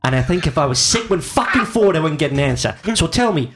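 lightly voiced Boston cop, mock tough; hammed-up tough-guy movie quote; Mark Wahlberg impression. Podcast host asks Mark to recite his lines, mock tough. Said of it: "recreate some of the brilliant, brilliant readings".

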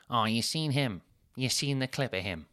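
lightly put-on wife's voice; a hint of a gossipy wife; Sophie voice. Wife telling husband about the lad, lightly voiced. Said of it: "I'll do a voice".

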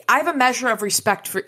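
badly attempted Spanish accent; Antonio Banderas. Podcaster reading vampire Ortega's speech aloud, attempted Spanish accent. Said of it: "my best Antonio Banderas voice".

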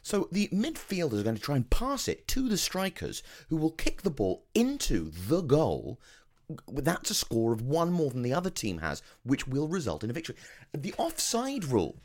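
high, over-explaining sports pundit; patronising commentator. Pretend.

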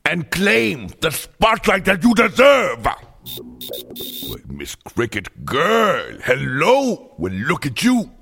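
lightly voiced sassy diva, delighted with nature; a hint of a camp diva loving the outdoors; a singer. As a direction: purr it like a fierce diva. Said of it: "it is me, the singer".

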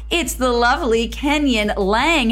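a lightly put-on Minnesotan accent, slow. Host teasing his guest in a hammed-up Minnesotan accent. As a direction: stretch it out in a mock Minnesotan lilt. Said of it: "She has an awesome Minnesotan accent".

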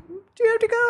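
high, coaxing question; wistful plea. Retold or imitated. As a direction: ask him sweetly to stay. Pleading he stay.

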